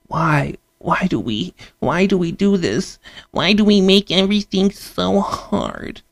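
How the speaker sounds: mock-anguished rising whine; upset public. People stirred up by the news, mock-anguished whine. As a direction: play people wringing their hands over the news, mock despair. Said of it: "make you be like".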